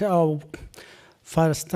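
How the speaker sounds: ordinary talk, nothing marked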